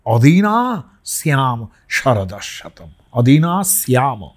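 slow Sanskrit chant; mantra recitation. Shown as a demonstration. Teacher chanting a Vedic blessing, slow and measured. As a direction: intone the verse slowly.

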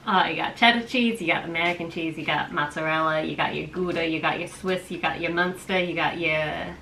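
put-on playful half-guessed East Coast accent rattling off cheeses; New York accent. Listing cheeses to her quiz partner in a mock New York accent. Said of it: "I wanted to just do an accent".

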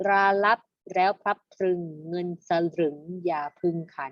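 measured verse reading for pupils; reading along together. Shown as a demonstration. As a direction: lead the class through the rhyme, phrase by phrase. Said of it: "เรามาอ่านพร้อมๆกันเลยค่ะ". (อ่านบทร้อยกลองนำนักเรียนทีละวรรค)

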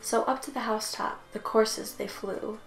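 measured storybook read with pauses; unhurried verse recital, pausing at each rhyme; bedtime story narration. A narrator's reading. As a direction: read a Christmas poem aloud, line by line. Reads Christmas poem aloud.

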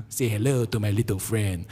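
put-on playful Italian-accented gangster line. Pastor quoting a mafia film, mock Italian accent. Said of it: "try saying it in the Italian accent".

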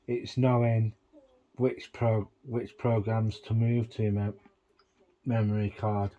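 talking while chewing a mint; words round a mint in the mouth; mouth full. Real, not acted. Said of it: "Sorry, I'm just chewing on a mint".

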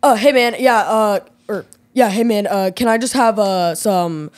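guy impression. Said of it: "like, guy impression".

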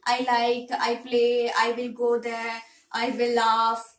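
short phrases with small pauses between; even, simple example phrases in a list; simple short sentences. Shown as a demonstration. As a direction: demonstrate beginner sentences, one at a time. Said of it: "You can speak very simple, simple words".

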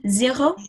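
zéro with a French R. Shown as a demonstration. Teacher modelling zéro for the class, French R. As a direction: say zéro with the R made at the back of the throat. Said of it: "with the French R".

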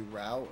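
"route" rhyming with out; American "route". Shown as a demonstration. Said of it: "American ways of saying English words".

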